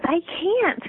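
a hint of a fretful storybook toad; Toad refusing. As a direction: play Toad's helpless refusal.

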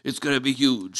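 Jill Stein impression. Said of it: "there's a Jill Stein impression".

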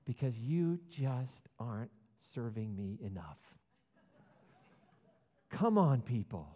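hammed-up preacher scolding; mock scolding. To the crowd, a false preacher scolding in mock fury. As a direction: shame the crowd for not serving.

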